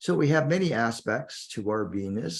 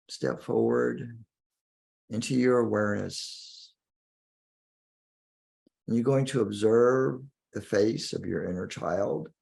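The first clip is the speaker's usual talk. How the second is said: guided meditation. Acted. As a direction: guide the listener inward, lingering on key words.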